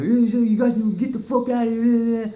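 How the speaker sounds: high, loud get-out command; voicing the gunmen telling them to leave, shouted; loud order. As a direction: yell them off your property. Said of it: "and I'm like".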